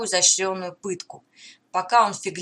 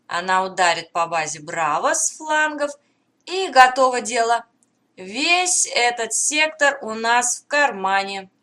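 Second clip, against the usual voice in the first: alien commander voice. Acted. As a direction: gloat like a plotting invader. Alien commander's gloating thoughts.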